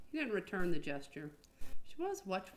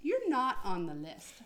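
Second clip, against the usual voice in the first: polite receptionist; 3 semitones higher, 3 dB louder, slower than usual. Acted. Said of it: "Samantha Frost smiled polite rejection".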